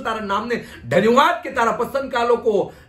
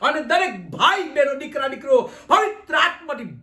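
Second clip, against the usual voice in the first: fervent prayer. Real, not acted. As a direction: build the repeated petitions to full force. Prays for filling with the Spirit.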